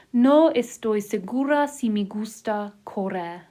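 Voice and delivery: over enunciating. Shown as a demonstration. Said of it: "I'll say it one word at a time".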